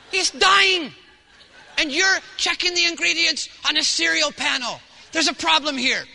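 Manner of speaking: mock-stern warning to a stranger; indignant confrontation. Pastor scolds the mother about her dying kid, loud. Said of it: "I come across like".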